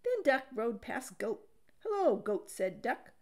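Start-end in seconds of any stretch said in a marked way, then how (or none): 1.8-2.5 higher, louder hello. A narrator's reading. Duck greeting Goat with a higher, louder hello. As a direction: greet him brightly.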